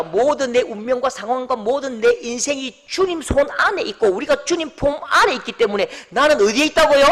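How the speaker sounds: ordinary talk, nothing marked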